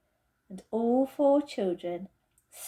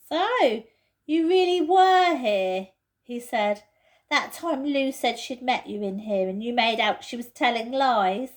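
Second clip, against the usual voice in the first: Peter's voice, accusing; 4 semitones higher, 6 dB louder than usual. Acted. Peter catches Edmund's lie, accusing. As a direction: drag the truth out of him.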